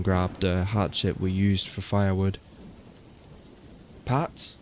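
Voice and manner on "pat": scream. Acted. Narrator screaming for Pat in the woods, higher frantic call. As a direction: yell his name in panic. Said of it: "I screamed".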